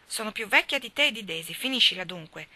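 understated indignant cry; cried out. Acted. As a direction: protest she is no little girl. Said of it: "gridò la ingrata Nan".

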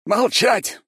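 high, loud roared command; furious shout. A narrator's reading. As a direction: silence them with a roar. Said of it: "Ромский запустил ещё одно заклинание".

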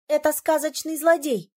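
high, loud indignant outburst. A narrator's reading. Heroine correcting the prince about the fairy-tale villain, indignant. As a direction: protest hotly. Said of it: "возмутилась я".

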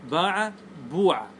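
باع, then بوع with a long "oo"; damma variant. Shown as a demonstration. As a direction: say باع بوع slowly as "baa-'a, boo-'a". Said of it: "لي ثلاث لغات".

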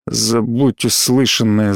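slow, deep, lifeless command; sepulchral voice. Acted. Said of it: "загробным голосом сказал он".

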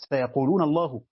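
سيقولون الله with الله as Allahu; Abu Amr reading. Shown as a demonstration. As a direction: stress الله, full Allahu. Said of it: "قرأ أبو عمرو".

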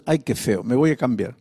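low, soft grumble to yourself; soft private mumble, pitched low; muttered at the mirror. Retold or imitated. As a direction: mutter it quietly to your reflection. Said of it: "¿Cómo decías?".

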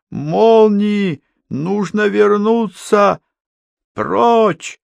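high, slow frantic yell; panicked shouting. Acted. Henning panicking in whirlwind.

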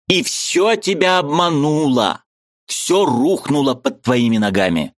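high, eager voice of a Ukrainian friend; lively high-pitched friend arguing; Mikhalevich's voice. A narrator's reading. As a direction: play the excitable friend up high.

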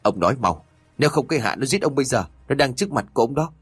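mild mock yell, rising and fast; yelling in his face. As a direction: push him hard, words tumbling out. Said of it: "Dần lại hét thẳng vào mặt".

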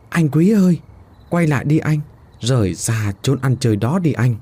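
put-on a girl's voice calling him back; calling softly from afar. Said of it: "Nghe tiếng gọi văng vẳng bên tai".

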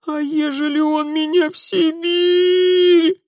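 very high, slow frightened wail; terrified wail. Acted. Scared girl fearing Siberia, very high and slow. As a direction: panic at the thought of exile. Terrified girl's new fear.

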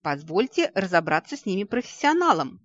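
loud booming boast. Acted. Ghost-hound master claims the job for his hunters, booming loudly. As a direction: thunder it out like a proud master. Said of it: "прогромыхал магистр призрачных гончих".

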